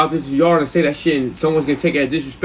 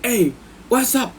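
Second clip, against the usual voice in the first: put-on high, stretched, accented greeting; 10 semitones higher than usual. Cellmate greeting the neighbor daily, high oblivious voice. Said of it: "V would say the same shit to him".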